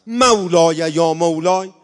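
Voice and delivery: "مولای یا مولای" said straight and firm, not chanted; firm, direct plea. Shown as a demonstration. Preacher showing how to call God today, firm and direct. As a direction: speak "مولای یا مولای" bluntly to God, no melody. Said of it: "الان خیلی محکم باید بگی".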